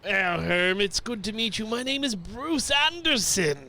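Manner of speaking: put-on outsider's northern city accent. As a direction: introduce yourself with a foreign-sounding city accent. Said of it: "a northern city folk from across the pond".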